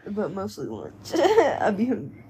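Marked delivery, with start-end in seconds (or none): 1.1-2.3 laughing. Real, not acted. Joking about needing lunch money.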